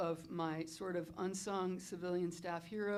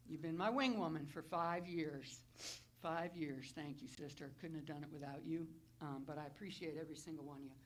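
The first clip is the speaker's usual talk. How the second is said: holding back tears. Real, not acted. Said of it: "I'm gonna try to do this without crying".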